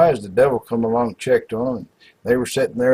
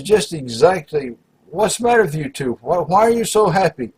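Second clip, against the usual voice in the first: exasperated devil; 4 semitones higher than usual. Retold or imitated. Devil demands why they're happy.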